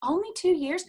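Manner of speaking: incredulous rising "two years?"; mock disbelief. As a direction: imitate her teasing disbelief. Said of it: "That's exactly how she said it".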